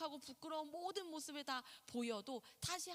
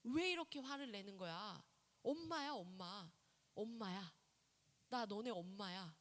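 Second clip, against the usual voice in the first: soothing mother; 4 semitones lower than usual. Retold or imitated. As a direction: gently remind the child who mom is. Mother soothing upset child.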